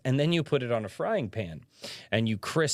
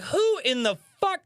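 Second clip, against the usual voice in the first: mock outraged yell; 3 dB louder than usual. Retelling yelling about open door.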